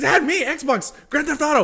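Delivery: very high, loud laughing shriek; laughing as the drunk friend throws him out; laughing squeal. Retold or imitated. Pleading list, squealing.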